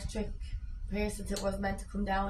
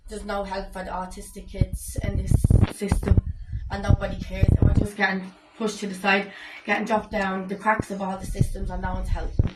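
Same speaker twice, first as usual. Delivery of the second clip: louder, impassioned complaint; a mother at breaking point pleading louder; raised angry plea; 6 dB louder than usual. Real, not acted. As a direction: let the frustration swell as you speak.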